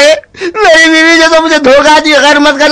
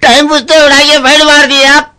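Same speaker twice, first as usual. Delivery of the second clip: hurt whining. Acted. Victim after being punched.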